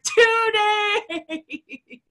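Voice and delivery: high squeak of an answer, laughing through it; sheepish laugh. Retold or imitated. Therapist confessing to her patient, laughing high. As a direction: admit it sheepishly, giggling. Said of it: "I was like".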